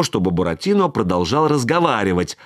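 usual speaking voice

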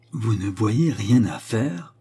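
slow, every word of "Vous ne voyez rien à faire?" weighed and stressed, rising at the end; pressing every word. A narrator's reading. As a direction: lean on each word, one by one. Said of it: "en appuyant sur chaque mot".

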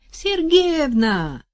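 high, slow, loud calling; frantic cry. Acted. Соседка тревожно зовёт вдову, громкий высокий выкрик. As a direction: yell the name in alarm. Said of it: "заполошно выкрикнула".

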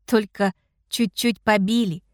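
usual speaking voice

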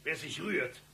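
loud, high barked commands; holdup shout. Acted. Gunman storming in shouts at everyone. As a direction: bark orders at the hostages.

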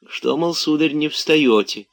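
high-pitched, mollifying servant; soft backtracking. A narrator's reading. Servant covering up his roar to the master, soft. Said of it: "мягко отозвался Захар".

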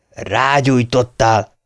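slow, accusing husband; husband interrupting slowly, accusing; Tom cuts in. Acted. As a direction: drag out the accusation. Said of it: "vágott közbe Tom".

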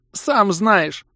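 high, loud tearful cry; sobbing outburst, pitched high; wailing sob. A narrator's reading. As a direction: wail it through tears. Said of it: "в голос всхлипнула девушка".

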